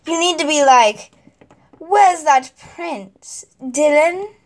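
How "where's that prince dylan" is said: slow, emphatic, searching call; more emotion. Shown as a demonstration. Director showing the queen's line with emotion. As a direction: give the line real feeling. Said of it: "Way more emotion".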